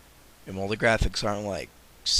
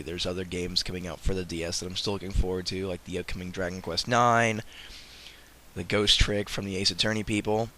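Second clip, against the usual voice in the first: talking while sick. Real, not acted. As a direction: voice worn down by a cold. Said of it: "banter on in my sick voice".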